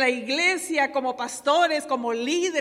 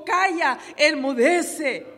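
slow, firm command to the sea; Jesus commanding the storm; 4 dB louder, much slower than usual. Acted. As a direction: speak it slowly as the voice that stills the wind. Jesús reprende vientos y mar. (orden solemne y lenta al mar)

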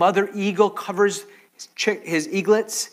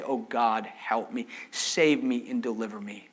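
softer, broken plea for rescue; desperate hushed plea; 7 semitones lower, 7 dB quieter than usual. Acted. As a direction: pray it low on your knees. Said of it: "get on our knees like David and say".

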